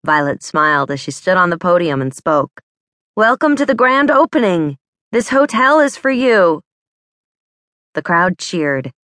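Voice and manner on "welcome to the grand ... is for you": excited welcome. Acted. Violet's opening speech at podium.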